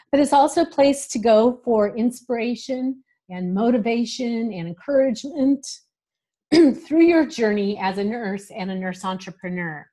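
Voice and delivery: hoarse from a cold; talking through a cold-roughened voice; rough voice. Real, not acted. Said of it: "excuse me for my rough voice right now".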